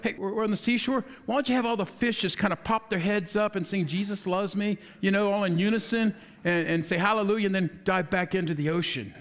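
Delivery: a touch of giddy, eager disciple; mildly excited, egging Jesus on; lightly voiced disciples, giddy and eager; giddy excitement. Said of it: "they're all giddy and they're probably excited".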